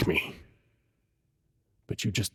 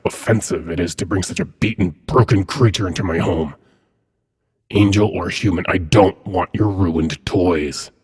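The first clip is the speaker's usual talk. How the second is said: louder, indignant scolding; stern rebuke; 4 dB louder than usual. Acted. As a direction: scold an underling with contained anger. Demon lord scolding Cambion over gift.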